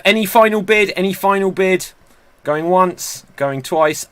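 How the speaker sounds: playful auctioneer calling last bids; going once, going twice call. Pretend. Host auctions the quiz bids.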